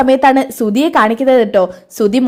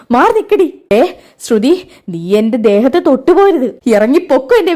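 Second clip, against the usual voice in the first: angry. Acted. Mother furious at her lying daughter. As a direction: push her away with your voice.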